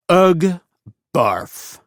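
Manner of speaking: gag at the sappy card; disgusted groan. Acted. Kid reading a gift card, gagging at it in disgust.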